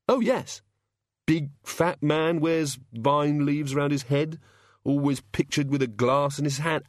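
a dazed, hungover god, slow and halting; lightly voiced sufferer, fumbling for words; groggy hungover god. A narrator's reading.

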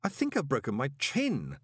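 put-on old man hissing; hissed old man. A narrator's reading. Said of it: "the old man hissed".

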